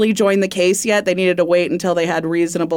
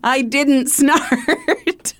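laughing denial; 6 semitones higher, much slower than usual. Real, not acted.

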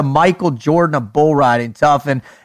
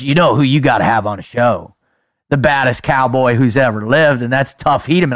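imitating manager; 7 semitones lower than usual. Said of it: "he goes".

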